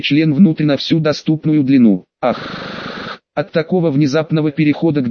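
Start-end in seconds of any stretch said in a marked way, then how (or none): 2.2-3.2 whispered sharp gasp; sharp gasp moan. A narrator's reading. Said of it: "громко застонала".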